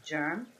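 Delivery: "germ" said for gem, the French way; French-accented pronunciation. Real, not acted. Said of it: "I keep on saying germ because in French".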